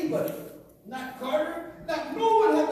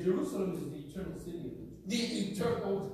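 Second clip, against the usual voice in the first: Trump impression; 4 semitones lower, 5 dB quieter, faster than usual. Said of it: "Talking like that".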